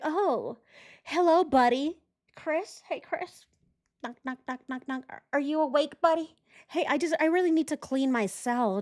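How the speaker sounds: a hammed-up ingratiating neighbour calling through the wall; imagined sweet-talking inmate. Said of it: "Was he like".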